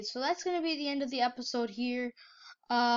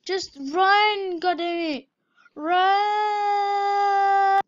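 higher, loud angry shouts; frustrated yelling; 8 semitones higher, 8 dB louder, much slower than usual. Real, not acted. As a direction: yell at the screen in frustration. Frustrated at the game.

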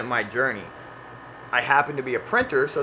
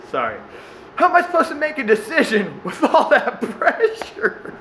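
put-on much higher, helpless little kid voice, laughing; whiny kid; 8 semitones higher than usual. Eight-year-old kid complaining to his mom, whiny and laughing. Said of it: "He goes".

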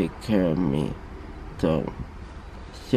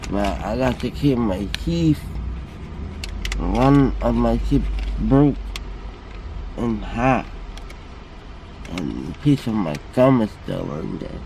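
slurred, numb mouth; numb from the dentist. Real, not acted. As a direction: talk with a numb tongue. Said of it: "I can't feel my tongue".

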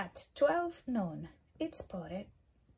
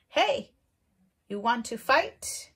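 grouchy ladybug voice; 3 semitones higher, 9 dB louder than usual. Acted. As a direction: pick a fight in a squeaky bug voice. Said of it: "the grouchy ladybug said".

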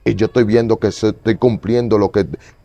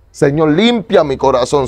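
slow, higher pleading to the Lord; pleading prayer; 5 semitones higher than usual. Retold or imitated. Retelling his prayer to the Lord, slow and pleading. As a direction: beg the Lord slowly, a little higher. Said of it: "yo le oré al Señor".

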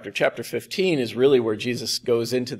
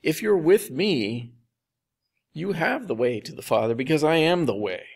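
reassuring; 3 semitones higher than usual. Retold or imitated. Jesus promising the disciples a way, reassuring. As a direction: reassure them with deliberate emphasis. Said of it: "It's a reassurance to the disciples".

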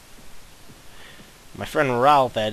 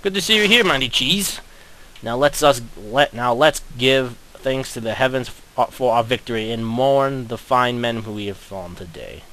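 pompous commander. Pretend. Pompous hero speech.

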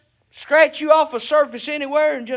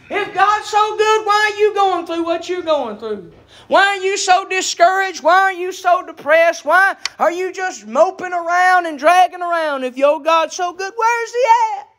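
mock needling questions, piled up one after another; imitated taunting doubters; 3 semitones higher than usual. Preacher voices people challenging a struggling believer, mock taunting. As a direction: press each question like a scoffer, rising at the end. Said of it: "everybody looks at you and says".

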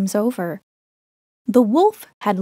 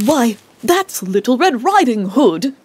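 shocked shout; 3 dB louder than usual. Acted. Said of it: "he shouted in shock".

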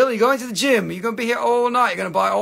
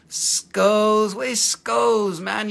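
calling out; 2 semitones higher, 3 dB louder, much slower than usual. Real, not acted. Calling out to a viewer.

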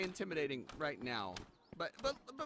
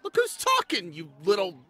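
angry retort; 7 dB louder than usual. Acted.

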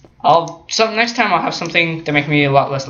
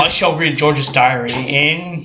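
Shakespearean voice; 2 semitones lower, slower than usual. Pretend. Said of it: "Shakespearean voice".

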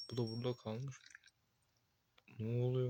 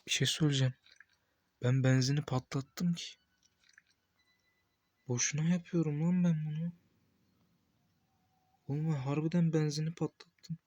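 louder annoyed rant about his own blunder; loud exasperated complaint; 3 semitones higher, 5 dB louder than usual. Real, not acted. Gamer realizing he blew the fuel, loud annoyed rant. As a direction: complain loudly, fed up with himself.

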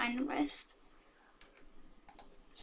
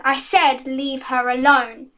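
louder, slower, firm growl; growled warning; 4 dB louder, slower than usual. Acted. Hero warning the girl off, a louder slow growl. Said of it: "he growled".

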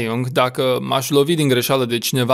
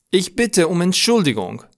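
higher-pitched, in one flowing phrase; flowing recap; 6 semitones higher than usual. Shown as a demonstration. Teacher recapping the formal apology, higher and connected. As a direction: say it through without breaks, pitched up.

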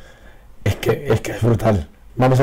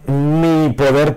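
slow, higher, lightly voiced noble lady; lordly lady; 4 semitones higher, much slower than usual. Quoting the card's lady character, slow and mildly lordly. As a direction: drawl it out like a haughty noblewoman. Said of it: "pero diciendo el mi como muy señorial".

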